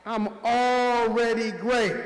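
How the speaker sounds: slow confident answer, leaning on already; with attitude. Shown as a demonstration. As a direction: show them how to own it, slow and sure. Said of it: "You gotta say that with attitude".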